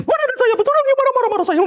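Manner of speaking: high squeaky protest of a flustered person; mock indignant denial. Pastor mocks an offended gossip target with a high flustered squeal. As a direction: play the guilty one squealing their innocence.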